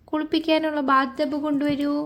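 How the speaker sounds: high, held-up call for help; play-calling to someone to fetch it. Pretend. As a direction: raise the pitch as if calling across.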